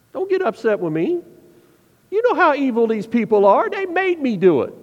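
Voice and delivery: whiny self-excusing protest, rising; excuse-making Aaron. Acted. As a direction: plead innocence, pitch climbing as the blame shifts. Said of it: "How did Aaron reply to this?".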